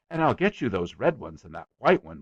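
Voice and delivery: put-on boy bragging to a guest, eager; eager small boy. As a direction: rattle on like a boastful little boy. The speaker's boy voice.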